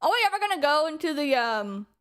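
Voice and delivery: talking while eating a cookie; words around a bite of cookie; chewing noisily. Real, not acted. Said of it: "sorry, I'm eating a cookie right now".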